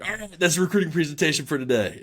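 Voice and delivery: high mock coach voice, dry; imitating the coach. Coach dismissing the intern in front of everyone, mock dry voice. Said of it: "he's like".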